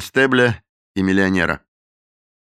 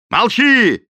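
loud high command to be silent; the captain orders the cook to shut up; angry shout; 13 semitones higher, 6 dB louder than usual. A narrator's reading. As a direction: bark the order.

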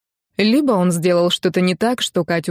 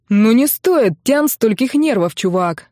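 trying to sound cheerful; 3 semitones higher, 4 dB louder than usual. Acted. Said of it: "стараясь быть весёлым".

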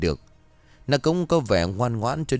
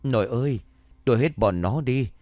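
ghostly pleading moan; 3 semitones higher than usual.

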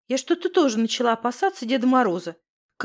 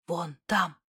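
soft hushed whisper, lower; 8 semitones lower, 7 dB quieter than usual. A narrator's reading. Misha whispers to Alyona pointing at the shed, soft and hushed. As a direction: whisper it, not to be heard. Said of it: "шепнул мне Миша".

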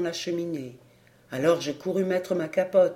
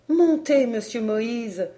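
high, loud call then slowing; urgent servant; 6 semitones higher, 5 dB louder, slower than usual. Acted. Servant calling the father upstairs, high then slow. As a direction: call him up quickly.

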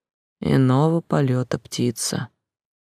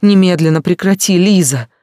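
higher, louder desperate yelling; higher, louder shout up at the window; 4 semitones higher, 7 dB louder than usual. A narrator's reading. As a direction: order her to stop.

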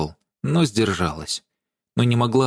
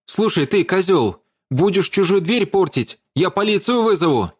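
threatening; 9 semitones higher than usual. A narrator's reading. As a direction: warn him off sharply. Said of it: "пригрозила Даша".

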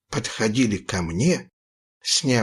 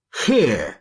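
gruff bark. A narrator's reading. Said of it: "рявкнул Одноглазый".

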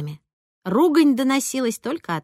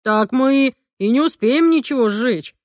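indignant; 2 semitones higher, 4 dB louder than usual. A narrator's reading. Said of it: "возмутился папа".

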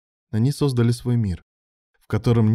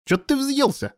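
casual tone. A narrator's reading. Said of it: "непринуждённым тоном".

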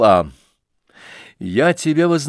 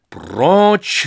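high loud shout pushing him off; 6 semitones higher, 6 dB louder than usual. Acted. Nastasya shouting Lebedev away from the fireplace. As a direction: bark him away from the fire. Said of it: "закричала Настасья Филипповна".

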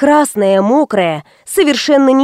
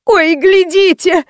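higher, slow crying scream; horrified cry; 8 semitones higher, slower than usual. Acted. Woman cries out to crowd, horrified. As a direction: scream it out in horror. Woman sees dead man.

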